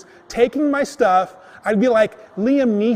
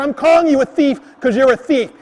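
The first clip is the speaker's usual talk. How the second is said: higher-pitched, insistent retold accusation; heated accusation; 5 semitones higher, 4 dB louder than usual. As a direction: hold your ground in a quarrel. Retold accusation repeated in quarrel.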